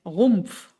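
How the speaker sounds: Rumpf with a throaty gargled R, /ɣumf/; German R in Rumpf. Shown as a demonstration. Teacher models Rumpf for Spanish learners, throaty R. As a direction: roll Rumpf from the back of the throat. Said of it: "Rumpf es el tronco".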